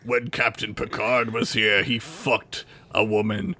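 lightly voiced super villain; measured villain declaration, lightly hammed-up; Worf. Host mocks Worf's vendetta on the vacation planet, lightly villainous. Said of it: "He's like a fucking super villain".

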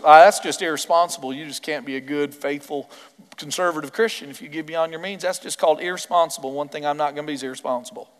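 lightly put-on Southern accent, mocking. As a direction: play a prim Southern churchgoer, Southern accent. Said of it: "Why do I always have a Southern accent when I do that?".

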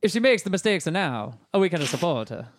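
put-on Italian accent. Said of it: "Can you say that in an Italian accent?".

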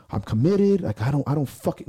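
hurt and furious; yelling like at a girlfriend. Retold or imitated. Lifter yelling at his sport like a girlfriend, outraged. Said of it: "I'm yelling like I'm talking to a girlfriend".

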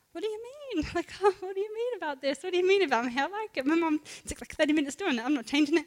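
put-on a kid defending her hair; indignant young self. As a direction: imitate her younger self's hurt protest. Retelling her defence to mean friends.

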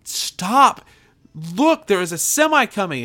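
high, loud, desperate warning shout; acted scream. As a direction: scream out to stop someone in danger. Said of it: "And I scream".

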